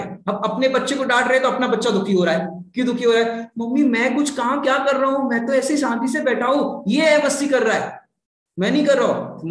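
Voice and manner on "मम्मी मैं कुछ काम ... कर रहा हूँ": lightly voiced small child, a bit higher, complaining; child whining to mom he did nothing; child protesting. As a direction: plead like a wronged little boy. Child protesting to mother in story.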